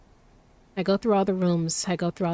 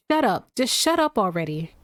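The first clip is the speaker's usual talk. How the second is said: sharp frustrated shut up; telling him off. Acted. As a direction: cut him off, fed up. Acted quarrel with Crow.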